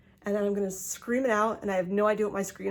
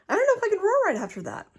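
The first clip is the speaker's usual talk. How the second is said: breathless laughing; 11 semitones higher, 4 dB louder than usual. Real, not acted. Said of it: "my cheeks are flushed now".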